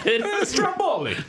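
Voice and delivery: slow, hammed-up fake Russian; playing a Russian saying Stromboli; mock Russian accent. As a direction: lay on a silly Russian accent. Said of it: "Russians can like Stromboli".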